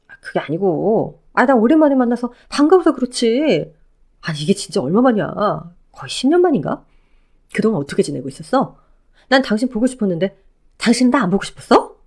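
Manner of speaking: lightly voiced ex-husband, eager and pleading; a hint of a clingy ex overjoyed to see her. Ex-husband calling out to his ex-wife, lightly voiced eager pleading.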